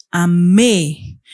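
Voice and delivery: "amé" with a long, stressed final é; ending stressed. Shown as a demonstration. Teacher points out a past-tense ending, "amé" with final é held. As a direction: lean on the last vowel of "amé". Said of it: "Solo era la E".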